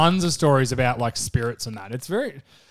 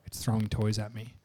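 softer, half-asleep words; quiet sleepy voice; 5 semitones lower, 11 dB quieter than usual. Retold or imitated. Girlfriend woken at night, sleepy and quiet. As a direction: mumble like someone just woken. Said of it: "She's like".

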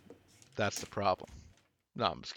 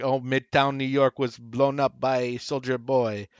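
slow, louder French-accented impression; Frenchie; 3 semitones higher, 5 dB louder, slower than usual. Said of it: "incredible Frenchie impression".

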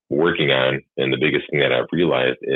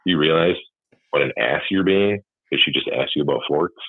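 sarcastic stupid voice. Retold or imitated. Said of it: "a stupid voice to myself".

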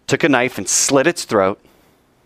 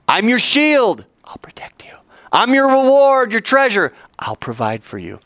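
God's picture promise; 10 semitones higher than usual. Acted. God promising Abram shield and reward, high and grand. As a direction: declare it like a grand image.

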